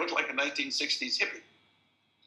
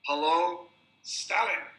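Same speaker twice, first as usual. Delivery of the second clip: louder, higher taunting repeat; much louder; 5 semitones higher, 6 dB louder, much slower than usual. Retold or imitated. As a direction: push it louder so the room hears. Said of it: "he said in a much louder voice".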